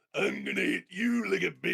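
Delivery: big, loud, rasping monster voice. Picturing a threat line in Goldar's voice: Goldar voice. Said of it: "I'm picturing that in Goldar's voice".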